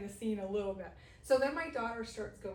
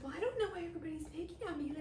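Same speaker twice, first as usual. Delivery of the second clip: whiny daughter; 8 semitones higher, faster than usual. Retold or imitated. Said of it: "she's like".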